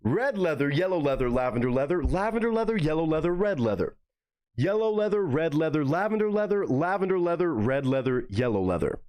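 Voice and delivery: "Red leather, yellow leather" rising on "lavender"; tongue twister drill. Shown as a demonstration. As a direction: rattle off "leather" cleanly in a chant. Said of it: "let me do 'em the regular way".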